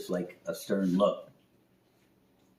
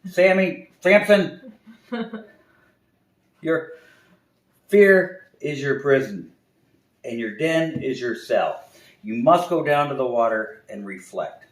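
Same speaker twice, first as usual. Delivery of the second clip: loud, higher, slow sage; solemn owl; 7 semitones higher, 9 dB louder, slower than usual. Acted. Wise owl to the bear, slow solemn pronouncement. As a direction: intone it like a prophecy.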